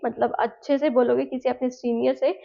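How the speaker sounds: ordinary talk, nothing marked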